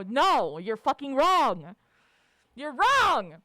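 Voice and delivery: loud, emphatic mock correction; hammed-up indignant contradiction; angry retort. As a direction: shoot it down forcefully. Acted angry retort in rant.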